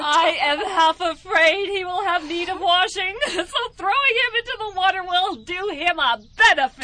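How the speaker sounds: speaking through laughter; laughing. Acted. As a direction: laugh while you talk. Wives laugh at the trick.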